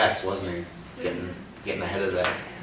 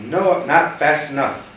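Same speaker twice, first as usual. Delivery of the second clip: dramatic exclamation; 7 semitones higher, 10 dB louder, slower than usual. Acted. Dramatic climax of read story.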